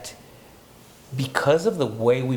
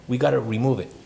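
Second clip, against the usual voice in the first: voicing the stomach; 4 semitones higher, faster than usual. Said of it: "the mechanics of your stomach saying".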